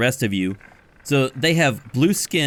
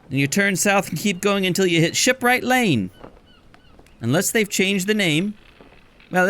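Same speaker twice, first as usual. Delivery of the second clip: much higher voice giving directions; chatty barkeep; 8 semitones higher than usual. Acted. Barkeep gives long directions to Cat Salvage, high voice. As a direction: rattle off the route.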